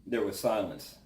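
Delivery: solemn, measured Bible reading aloud; scripture reading. Acted. Reads Job chapter four aloud.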